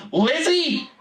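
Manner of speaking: high calling shout of a name; exasperated brother calling out. Retold or imitated. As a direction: yell "Lizzie!" across the house. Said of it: "Luke shouted".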